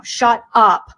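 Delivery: ordinary talk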